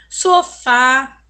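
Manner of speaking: "Sofá" dictated with a loud, wide-open final A; "Sofá" loud and deliberate, stressed on the open last vowel; open accented A. Shown as a demonstration. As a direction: punch the "fá" in "Sofá". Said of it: "acento agudo no A".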